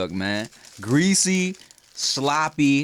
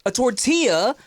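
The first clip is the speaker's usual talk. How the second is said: mock rant; 6 semitones higher, slower than usual. Ranting back at critics.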